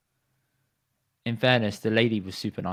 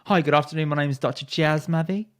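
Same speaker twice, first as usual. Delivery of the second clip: a smooth, slightly raised self-introduction; imitation of Jazz; 5 semitones higher than usual. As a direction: lightly mimic his suave doctor intro. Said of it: "Let's hear the imitation".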